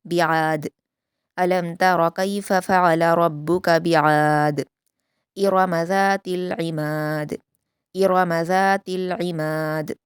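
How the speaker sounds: slow, melodic Quranic recitation; measured Quran recitation; tajweed recitation. Shown as a demonstration. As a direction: recite it slowly and carefully as a model for students. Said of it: "यहाँ पर कलकला किया जाएगा".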